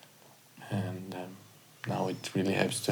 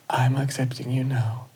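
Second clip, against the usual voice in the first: whispered affirmation; 4 semitones higher than usual. Shown as a demonstration. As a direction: whisper acceptance. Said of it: "receive the words".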